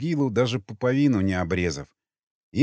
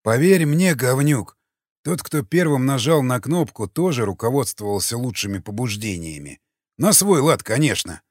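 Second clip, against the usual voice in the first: smirking. Acted. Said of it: "усмехнулся людоед".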